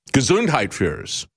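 slow, heavy German accent. Shown as a demonstration. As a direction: say it like a German official. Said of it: "should be done in a German accent".

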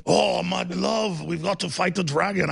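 slow, drawn-out attempt at Shrek's accent; badly faked Shrek voice, stretched out; botched Shrek accent. Host attempting a Shrek quote for his guest, slow mock accent. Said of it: "I can't do it right".

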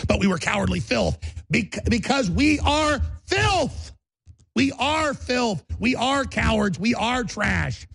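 high, slow anguished yelling; anguished shout. Acted. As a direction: cry the words out in despair. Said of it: "it's an Alexander Solzhenitsyn quote".

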